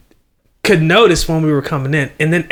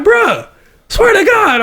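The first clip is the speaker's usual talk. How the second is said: disbelieving; 14 semitones higher, slower than usual. Retold or imitated. Teammate disbelieving in story.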